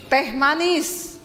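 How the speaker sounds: slow lordly order; commanding husband. Retold or imitated. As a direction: order like a king at table, drawn out. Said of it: "perintah istri".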